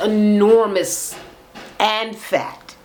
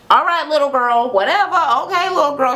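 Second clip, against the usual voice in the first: mock-sweet, higher dismissive retort; condescending; 6 semitones higher than usual. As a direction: talk down to her as if to a child. Retold condescending put-down in argument.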